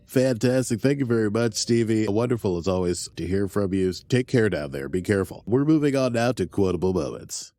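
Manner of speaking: host a news show; news anchor voice. Pretend. Mock news anchor segue.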